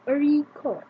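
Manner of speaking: "A record" with stress on "rec"; first-syllable stress. Shown as a demonstration. Teacher repeating the noun, "A record" stressed on "rec". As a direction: lean on "rec" in "A record", fall away after. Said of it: "If the stress is on first syllable".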